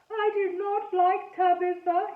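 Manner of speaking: put-on high, slow ghost boy with a French-ish accent; funny French-ish accent. A narrator's reading. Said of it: "he said in his funny accent".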